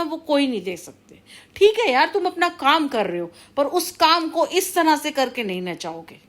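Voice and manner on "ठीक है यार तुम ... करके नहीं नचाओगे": high-pitched, fed-up protest; real, heated telling-off; exasperated scolding. Real, not acted. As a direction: burst in fed up, voice raised in pitch. Scolding the person troubling her.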